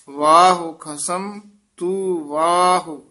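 ਵਾਹੋ ਖਸਮ ਤੂੰ ਵਾਹੋ with a clear pause after it; recite, then rest at ਵਾਹੋ. Shown as a demonstration. Teacher showing students where to pause, pause after ਵਾਹੋ. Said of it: "ਇੱਥੇ ਵਿਸਰਾਮ".

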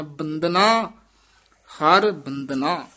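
ਬੰਦਨਾ with a plain soft ਦ, no aspirated ਧ; soft d in Bandana. Shown as a demonstration. Teacher showing ਬੰਦਨਾ with a soft d. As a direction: say ਬੰਦਨਾ with a light d, not ਬੰਧਨਾ. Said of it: "ਇੱਥੇ ਦੱਦੇ ਨਾਲ ਬੋਲਣਾ ਹੈ".

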